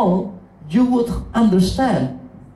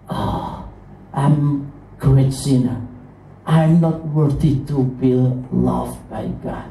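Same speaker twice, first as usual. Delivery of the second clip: acted self-reproach; 5 semitones lower than usual. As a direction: voice a sinner's low, unworthy confession. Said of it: "sometimes we feel that".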